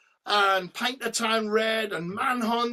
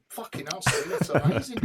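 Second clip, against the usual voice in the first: breathless laughing awe; laughing amazement. Retold or imitated. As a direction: laugh out the praise in wonder. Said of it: "and I go".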